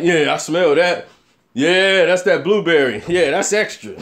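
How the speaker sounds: lightly mocked stoner sniffing approvingly; stupid smokers. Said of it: "smokers are so stupid. They be like".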